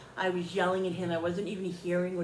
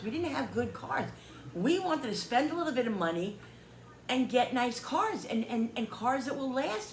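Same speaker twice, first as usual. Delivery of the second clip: higher, insistent retold plea; earnest appeal; 6 semitones higher than usual. Customer retells pleading hardship to the dealers, insistent. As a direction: make them understand, pressing each point.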